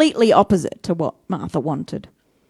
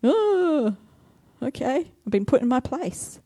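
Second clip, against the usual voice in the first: sheepish Martha; 4 semitones higher, 4 dB quieter than usual. Retold or imitated. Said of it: "can imagine Martha's face".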